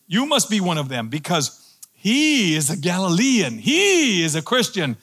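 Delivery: acted accusation, leaning on HE; insisting. Bystander pointing out Peter as a Galilean, insistent. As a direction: press the charge, drawing out the pronoun. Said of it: "someone else insisted".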